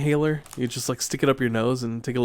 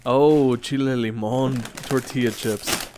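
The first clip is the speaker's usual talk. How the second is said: blocked nose from allergies; stuffy, nasal voice; nasally; slower than usual. Real, not acted. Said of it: "sorry if I'm just nasally".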